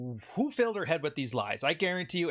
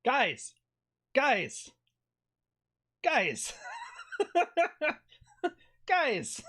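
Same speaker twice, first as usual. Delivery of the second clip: high, laughing cries of Guys; repeated Guys breaking into laughter; laughing exasperated call; 14 semitones higher, much slower than usual. Real, not acted. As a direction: call out to the chat, cracking up.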